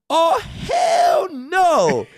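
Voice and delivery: high, slow, drawn-out mock shout of Oh, hell no; imitated security guard shout. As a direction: stretch it out loud like the burly guard reacting. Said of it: "see this dude go".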